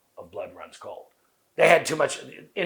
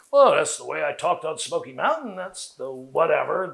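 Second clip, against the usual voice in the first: buzz saw delivery; 4 semitones higher, 5 dB louder than usual. Retold or imitated. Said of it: "I could now call it a buzz saw delivery".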